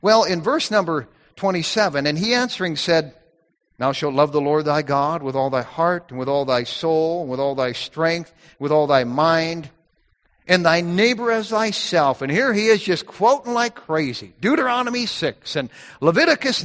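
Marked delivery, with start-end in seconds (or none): 2.1-12.2 scripture reading. Acted. Reads the King James passage aloud.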